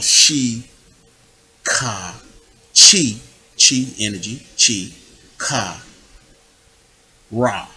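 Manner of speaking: "Shi, Ka, Chi" and "Ka, Ra" as separate syllables; Ebonics-style chakra. Shown as a demonstration. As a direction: break it up: "Shi", "Ka", "Ra", pausing between. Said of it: "what I just did was the eubonic interpretation".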